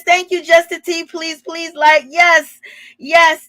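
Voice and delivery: usual speaking voice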